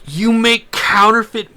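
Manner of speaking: retold alarm. Realising guy makes counterfeit money.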